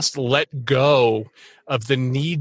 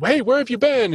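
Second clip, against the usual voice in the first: quoted exclamation; 9 semitones higher than usual. Retold or imitated. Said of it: "you know, they".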